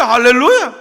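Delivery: loud, ringing 할렐루야 falling at the end; hallelujah shout. Real, not acted. Preacher crowning the story with a loud hallelujah. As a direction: burst out in praise. Preacher exclaims at good news.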